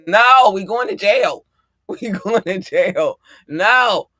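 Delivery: mock-protest loudly, half amused; retold firm refusal. Host replaying her refusal to her brother, mildly heated. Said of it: "he was like, "You wanna go?".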